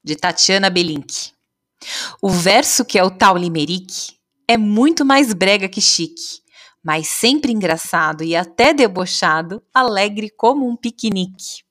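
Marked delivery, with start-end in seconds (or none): 2.2-11.6 lively, measured limerick recital; poem reading. A narrator's reading. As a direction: read out a playful verse with bouncy rhythm.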